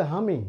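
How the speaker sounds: "হামি" with an h before "ami"; Bogura dialect form. Shown as a demonstration. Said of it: "Bogura অঞ্চলে যাও, ওরা বলবে".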